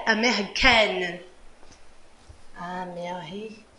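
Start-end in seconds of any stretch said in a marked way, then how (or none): 2.6-3.7 soft whispered repeat of the word; a breathy classroom whisper. Shown as a demonstration.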